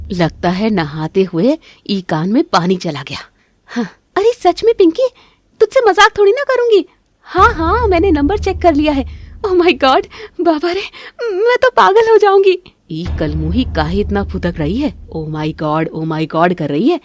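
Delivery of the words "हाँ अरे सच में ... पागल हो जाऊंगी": high, loud thrilled chatter; excited loud phone call. Acted. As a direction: gush loudly so the neighbour hears. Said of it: "जोर-जोर से बात कर रही है". (ऊँची, तेज़ आवाज़ में उत्साहित फ़ोन बातचीत)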